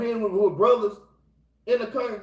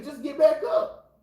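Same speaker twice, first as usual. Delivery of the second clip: slow, raised call to get back up; rallying shout; 5 semitones higher, slower than usual. Real, not acted. Preacher urging fallen brothers and sisters, slow rallying shout.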